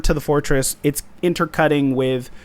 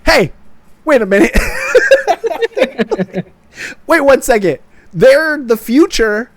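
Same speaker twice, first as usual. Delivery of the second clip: louder, higher mock protest; 4 semitones higher, 5 dB louder than usual. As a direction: ham up the Coven objecting. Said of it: "the Coven are like".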